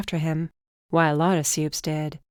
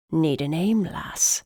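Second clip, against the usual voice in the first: put-on muttered English accent; slower than usual. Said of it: "he muttered, more of his English accent".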